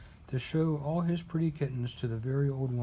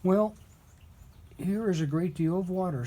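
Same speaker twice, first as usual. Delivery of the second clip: put-on booming old man; 4 semitones higher, 3 dB louder than usual. Old man answers the cats.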